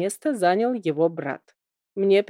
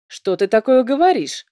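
higher, louder indignant outburst; 4 semitones higher, 6 dB louder than usual. A narrator's reading. Kind twin objects to his brother, indignant. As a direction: bristle at the cruel suggestion. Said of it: "возмутился первый".

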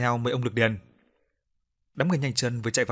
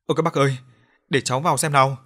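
louder, alarmed call; panicked cry; 2 semitones higher, 6 dB louder, faster than usual. Acted. Woman pushing in to see, panicked call. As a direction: push in, calling out in panic. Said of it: "miệng la lên hoảng hốt".

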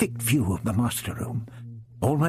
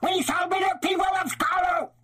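very high, shouted alien proclamation; raging Dalek shout. A narrator's reading. The glass Dalek raging at its prisoners, very high shouting. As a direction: scream it out like a tiny mad tyrant.

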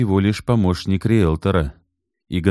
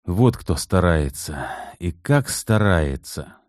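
annoyed; slower than usual. Acted. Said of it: "с досадой подумал".

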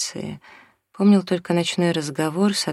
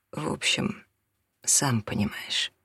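whispered confession; 6 dB quieter than usual. A narrator's reading. Father confiding an affair to son.

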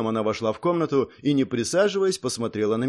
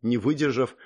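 plain reading voice

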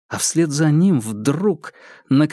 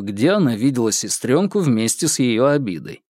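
ordinary delivery, nothing marked

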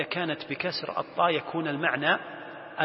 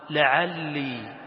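one word, very slowly drawn out; Quran recitation; much slower than usual. Acted. Teacher citing a word of the verse, reciting slowly. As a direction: stretch it as in recitation. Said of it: "الله سبحانه وتعالى".

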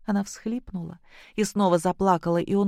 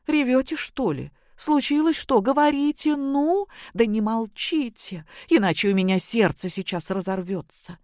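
high, anxious mother-in-law pressing for answers; worried, urgent questioning; startled older woman, voice raised high with worry; alarmed; 6 semitones higher than usual. Acted. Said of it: "голос Любови Сергеевны встревоженно зазвучал".

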